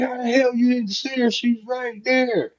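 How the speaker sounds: mock outrage, stretching it; incredulous daughter. Daughter disbelieving his excuse.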